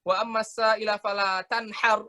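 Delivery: slow measured Quranic recital; Quran recitation. Shown as a demonstration. Teacher reciting the verse slowly for students. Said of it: "Kalau misalnya kita baca".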